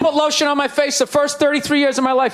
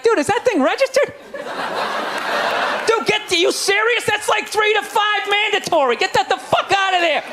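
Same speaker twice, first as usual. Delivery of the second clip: frantic white friend; 7 semitones higher than usual. Retold or imitated. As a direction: warn the rapper in a frantic high yell. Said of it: "itching, like".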